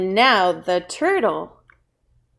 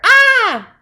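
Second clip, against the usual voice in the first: high, loud panicked ah; freaking out; 13 semitones higher, 9 dB louder than usual. Shown as a demonstration. Teacher showing the other meaning, freaking out. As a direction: yelp ah in alarm. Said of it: "like freaking out".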